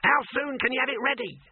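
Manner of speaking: high, eager shouted question; excited yell. A narrator's reading. Dibbler pressing for the finished picture, excited yell. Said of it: "he yelled".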